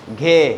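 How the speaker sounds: घे said loud, with a breathy voiced gh; aspirated ghe. Shown as a demonstration. Teacher shows kids the letter, aspirated ghe. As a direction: punch out घे with breath. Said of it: "इसे पढ़ते हैं हम".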